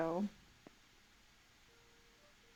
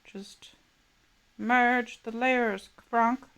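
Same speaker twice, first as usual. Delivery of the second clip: slow, drawn-out merge the layers; lightly voiced Kronk bark; Kronk quote; 3 semitones higher, 4 dB louder, much slower than usual. Streamer quoting Kronk at herself, mock slow. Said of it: "I use that joke too much".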